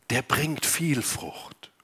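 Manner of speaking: leises, langsames Flüstern; flüstere das Wort langsam; geflüstert. Acted. Bibelwort geflüstert. (langsam geflüstert)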